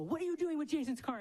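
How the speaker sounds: put-on shouted yell, high-pitched and rushed. Recounting spotting a stranger in Jason's car, retelling a yell at him. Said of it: "I'm yelling at him".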